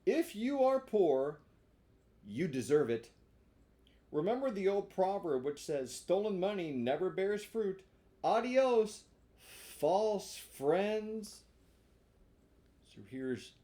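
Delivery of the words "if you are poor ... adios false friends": scolding Pinocchio. Acted.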